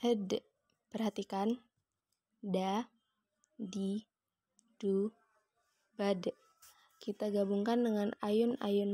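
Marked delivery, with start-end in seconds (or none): 0.0-0.4 "Ed" dengan d mati memantul; suara memantul. Shown as a demonstration. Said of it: "huruf da terdengar suaranya memantul". 2.4-6.3 "Da, di, du" satu-satu, "bad" memantul; huruf da. Shown as a demonstration. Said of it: "terdengar suaranya memantul".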